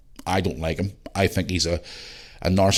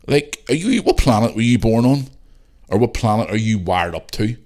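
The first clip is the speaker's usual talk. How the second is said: sarcastic disbelief; 3 dB louder than usual. Retold or imitated. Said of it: "and go".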